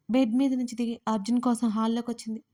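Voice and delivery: usual speaking voice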